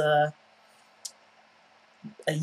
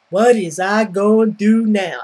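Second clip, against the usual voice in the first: mock woe is me; 5 dB louder than usual. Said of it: "almost verbatim what she says".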